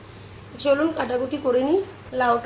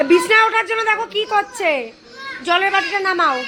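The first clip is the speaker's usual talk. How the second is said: high, louder delighted squeal at the dog; thrilled by the puppy climbing up; high, louder cry of delight at a pet; excited pet talk; 7 semitones higher, 5 dB louder than usual. Real, not acted. Excited at the dog's antics.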